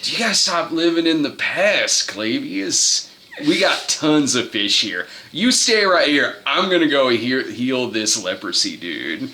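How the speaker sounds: lightly voiced laid-back dude; a hint of hippie savior; stoner Jesus. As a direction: mellow it out, unbothered.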